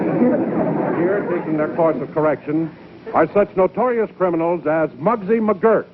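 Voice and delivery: brisk announcer read; newsreel narrator. Acted. Announcer introducing the futuristic prison to the audience, brisk newsreel style.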